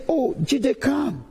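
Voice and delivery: acted-out "come over here" call; calling someone over. Acts out calling a passer-by over.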